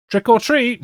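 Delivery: high, loud mock screech; shrieked spooky greeting; screeching skeleton. A narrator's reading. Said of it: "he screeches".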